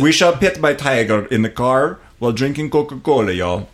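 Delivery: hammed-up Russian accent with a Southern y'all. Impersonating the Russian Atlantean in a Russian Southern accent. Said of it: "a Russian Southern accent".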